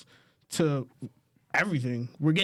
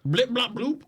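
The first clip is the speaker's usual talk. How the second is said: higher-pitched mocking question; mock wondering; 4 semitones higher than usual. Fan mocking yet another Skywalker story, mock wondering. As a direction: put on a sceptical fan, rising on the nonsense words. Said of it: "where we gotta be like".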